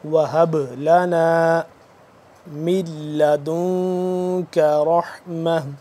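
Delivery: وَهَبْ with a bounced, echoing ساکن ب, recited slowly; qalqala on ba. Shown as a demonstration. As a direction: shake the still ب in وَهَبْ. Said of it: "اس کو ہم قلقلہ کریں گے". (وَهَبْ میں ب پر قلقلہ، آہستہ تلاوت)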